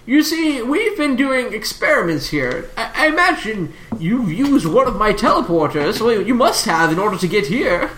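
lightly voiced professor steering the talk. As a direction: turn to business as a professor, lightly.

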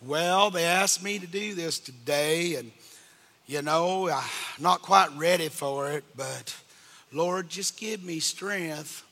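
a hint of a meek unready singer; lightly voiced hesitant prayer, soft and slow; mock-nervous plea to God; timid singer. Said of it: "If you get up and say".

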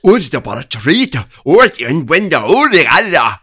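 loud mock Welsh accent, sing-song; hammed-up Welsh accent, loud and bouncy. Imitating a Welsh actor's accent loudly for a friend. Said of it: "That's my Welsh accent".

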